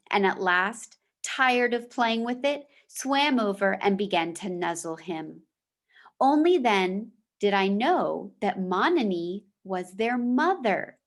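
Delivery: steady storytelling voice for a class; reading a chapter aloud to the class; story read-aloud. A narrator's reading. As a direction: read the novel to the students. Teacher reads novel aloud.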